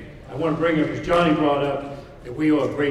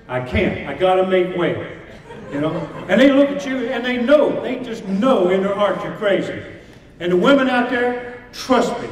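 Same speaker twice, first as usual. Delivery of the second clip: halftime pep speech. Acted. Motivational speech to fighters.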